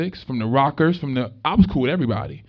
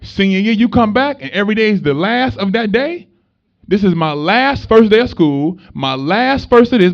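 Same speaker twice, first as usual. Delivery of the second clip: hyped up; 5 semitones higher, 7 dB louder than usual. Real, not acted. Hyping senior year to students.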